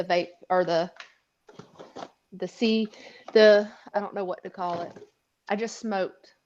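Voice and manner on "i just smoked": slow and a bit stoned. Real, not acted. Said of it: "I'm a little slow right now".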